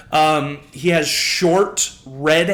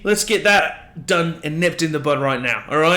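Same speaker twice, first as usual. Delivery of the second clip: indignant Lucas; 2 semitones higher than usual. Acted. Lucas correcting his nickname.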